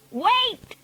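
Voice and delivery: high-pitched call; shouted. A narrator's reading. Witch calling out again, high shout. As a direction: cry out high. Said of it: "she shouted again".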